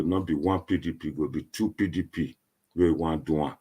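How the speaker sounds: ordinary delivery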